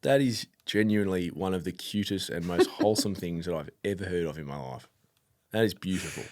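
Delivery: low, soft admiration; sincerely touched. Real, not acted. Co-host hears of a childhood tradition with mum, sincerely touched. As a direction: let it sink in quietly and sincerely. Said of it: "I'm not being sarcastic".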